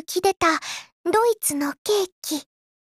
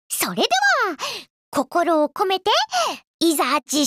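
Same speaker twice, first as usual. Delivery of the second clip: announcer call. Acted. Announcing the tasting.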